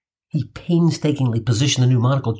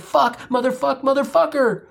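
screamed expletives; 9 semitones higher than usual. Retold or imitated. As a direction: let the curses rip up high. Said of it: "after screaming out the holy trinity".

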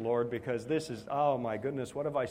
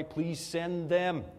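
slow plea; 3 semitones higher, much slower than usual. Retold or imitated. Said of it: "started to pray".

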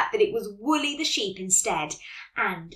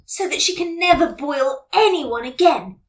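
lightly voiced eager storybook girl, pitched up; a touch of excitement, higher voice; exclaiming; 6 semitones higher, 6 dB louder than usual. A narrator's reading. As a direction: exclaim a bold plan. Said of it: "exclaimed Jessie".

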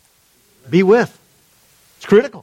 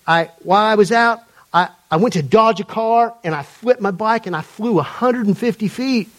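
imitated Atlanta man telling his testimony; attempted Atlanta accent. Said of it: "he's telling the story in his accent".

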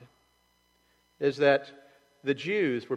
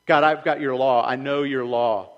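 proud loud boast; 9 dB louder than usual. Retold or imitated. Proud claimant voiced loudly.

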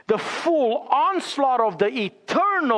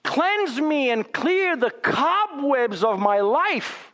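pleading prayer; 5 semitones higher, slower than usual. Retold or imitated. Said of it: "feeling convicted and saying".

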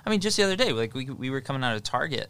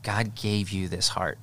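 reassuring dad; 2 semitones higher than usual. Retold or imitated. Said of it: "I say all the time is I say".

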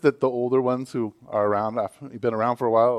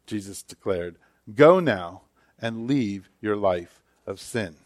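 measured Bible reading, unhurried; reading the Gospel aloud in church; scripture reading. A narrator's reading. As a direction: read the passage to the congregation. Reads the scripture passage aloud.

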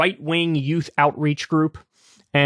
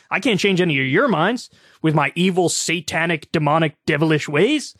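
smug mockery. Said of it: "She smugly thinks she's".

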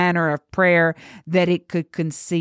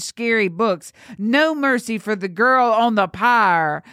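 raised-pitch, indignant condemnation; bitter tirade; 4 semitones higher than usual. Acted. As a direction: lay out each grievance with righteous anger. Girl's bitter tirade at the priest.

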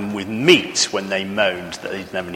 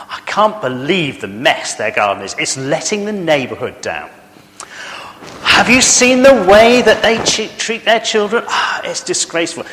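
tutting, nosy neighbour running others down; gossiping neighbour; 3 semitones higher than usual. Acted. Preacher voicing a nosy neighbour, tutting and disapproving. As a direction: play the busybody clucking over the garden.

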